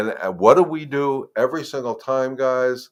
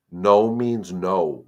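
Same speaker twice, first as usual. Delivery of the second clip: slow, deliberate, firm; 3 semitones lower, 3 dB louder, much slower than usual. Shown as a demonstration. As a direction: lay down the rule word by word. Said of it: "but you have to be firm".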